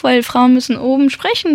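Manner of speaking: a lightly put-on high female register; mock high voice. Actress quoting advice she was given, in a mock high voice. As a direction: imitate the advice, lifted in pitch. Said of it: "sprich hoch".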